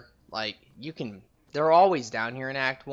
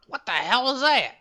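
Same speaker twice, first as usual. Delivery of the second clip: alarmed; 12 semitones higher, 7 dB louder than usual. Real, not acted. Startled by something in fight.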